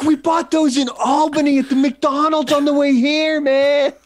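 high, laughing mock buddy voice; retelling a buddy's discovery, laughing high. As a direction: squeal it through laughter. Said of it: "he's like".

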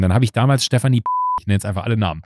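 ordinary talk

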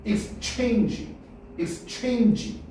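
exchange의 끝을 '쥐'로; exchange를 '체인'에 힘주어 높게. Shown as a demonstration. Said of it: "G 발음이야". (exchange, '익스체인쥐'로 또박또박)

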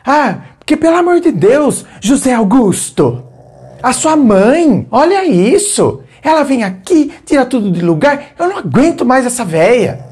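high, exasperated complaining voice; angry nagging. Shown as a demonstration. Wife nagging husband about his mother, high and exasperated. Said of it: "Cuidado com a raiva".

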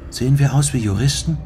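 a lightly defiant retort; challenging. Acted. Sachiko defying the armed stranger, mildly challenging. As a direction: toss the question back at him. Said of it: "fragte Sachiko herausfordernd".

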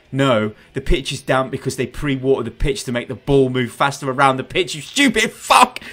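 exasperated correction climbing into a shout; exasperated rant. Pretend. Football fan ranting back at clueless celebrity's pitch remark, exasperated.

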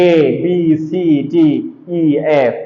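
separate, spaced letter names এ বি সি ডি ই এফ; alphabet as taught. Shown as a demonstration. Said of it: "আমাদেরকে পড়ানো হয়েছে".

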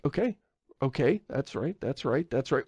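softly murmured acted-out approval; quiet approval. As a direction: play a listener quietly going along with it. Acting out approving reaction to accent.

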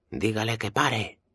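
high, slow, mildly shouted command; shouted order. A narrator's reading. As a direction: call out the order, pitched well up. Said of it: "Alvarado grita a Ana". (orden gritada, aguda)

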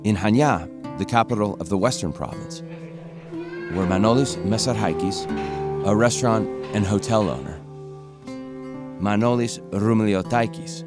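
measured voice-over with deliberate pauses between phrases; polished, scripted voice-over; documentary narration. A narrator's reading. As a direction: introduce the team like a documentary narrator.

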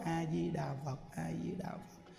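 very soft, low chant; fully softened heart. Shown as a demonstration. Teacher showing how to face a beating, gently chanting. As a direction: murmur the Buddha's name gently, letting it sink. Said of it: "Dịu hoàn toàn cái tâm xuống".

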